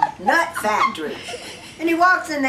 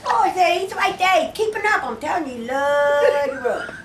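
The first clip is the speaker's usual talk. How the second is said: laughing through lines; 3 semitones higher than usual. Acted. Hairlip man laughing through reply.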